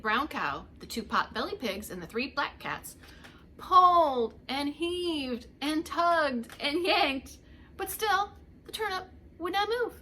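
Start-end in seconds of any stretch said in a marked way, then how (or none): 3.6-9.9 slow and loud, heaving; straining effort. A narrator's reading. Both old folks tugging together, loud strained heave. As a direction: pull the words out with effort.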